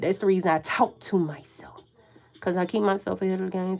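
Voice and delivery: breathy whispered confession; whispered aside. Real, not acted. Telling viewers why she talks to herself, whispered. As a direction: drop to a whisper as if to yourself.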